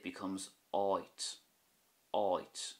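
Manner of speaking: "oit" with a long, drawn-out "aw" glide; long A with fada. Shown as a demonstration. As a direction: stretch the vowel of "oit". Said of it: "put a fada over the A".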